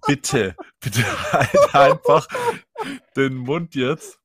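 loud, slow, fed-up shout; exasperated yell. Retold or imitated. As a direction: drag it out, pleading and fed up. Bouncer snaps at pestering guy.

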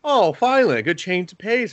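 high-pitched, hammed-up happiness; mock delighted relief. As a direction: imitate a naively pleased viewer. Mimics a happy viewer.

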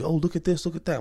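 hammed-up gushing over a fake mystery; mocking the prank crew. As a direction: lampoon a silly prank video host. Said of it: "these white people that be on there".

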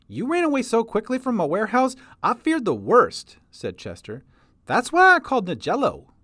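put-on high, loud folksy old-timer voice; old prospector. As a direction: holler it like a grizzled prospector. Chester speaks, interrupted by narration.

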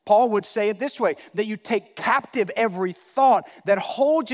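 emphatic pulpit delivery; forceful preaching. Real, not acted. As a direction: drive the point home to the congregation.

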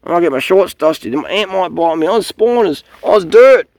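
mocking whiny quote. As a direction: whine like a fussy person afraid of dirt. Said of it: "There's people out there who can't sit on the ground".

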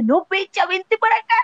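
a hint of a nervous friend pulling her back; imitating José. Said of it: "Y José".

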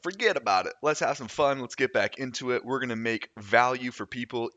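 rally yourself to get going; pumped-up resolve. Retold or imitated. Podcaster recalling the decision to restart season two, pumped-up resolve.

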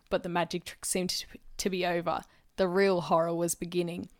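measured audiobook-style reading; story narration. A narrator's reading. Narrator reading a detective novel to listeners, storytelling voice. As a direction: read the mystery aloud, phrase by phrase. Reads their crime novel aloud.

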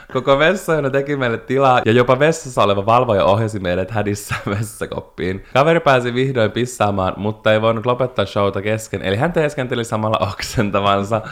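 lively read-aloud of a listener's story. Acted. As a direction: read the tale out with relish. (kuulijan tarinan eläväinen ääneenluku)

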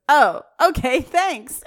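high, put-on polite nerd; lightly voiced nerd. Nerd told about the bug in dip, lightly voiced awkward thanks. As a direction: pitch it up for a mock awkward thanks.

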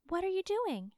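put-on high, bright girlish princess voice; cartoon princess. A narrator's reading. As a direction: play a sweet cartoon princess. Princess asks the spinner.

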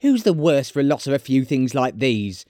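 high start, settling a little; high, dismissive woman; brazen charwoman. Acted. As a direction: argue it in a high character voice. Charwoman argues on.

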